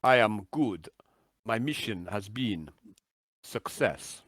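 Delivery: slow, portentous report in broken phrases; measured mission report with falling endings; cryptic radio contact, deliberate. Acted. Game master voices Big Bird.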